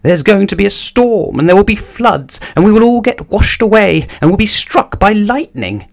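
high-pitched, mounting panic; panicked shrieking. A narrator's reading. Mister Jelly dreading the coming storm, panicked shrieking. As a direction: wail each new disaster in a high voice. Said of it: "shrieked Mister Jelly".

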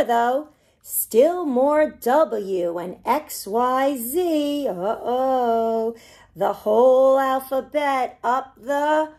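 put-on lively storybook read-aloud for little kids; reading to children. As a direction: bounce the rhymes along like a picture-book reading. Reads picture book to children.

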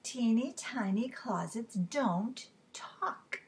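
slow, measured storybook correction; teacher's drawn-out reply; dismissive teacher. Acted. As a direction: spell it out slowly to a small pupil. Teacher answers the student firmly.

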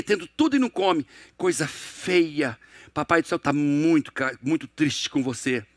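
put-on low, slow, reproachful parent scolding a child; guilt-tripping parent. Parent guilting a child who won't eat, low and reproachful. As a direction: lay the guilt on slowly, voice dropped low.

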